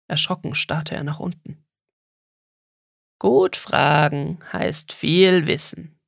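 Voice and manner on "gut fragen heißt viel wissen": put-on slow rasping old creature voice; rasping turtle. Giant turtle lectures the boy while chewing grass, slow rasp. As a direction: rasp the proverb out slowly. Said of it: "schnarrte eine riesige Schildkröte".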